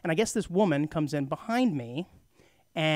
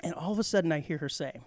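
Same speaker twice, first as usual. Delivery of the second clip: ordinary talk, nothing marked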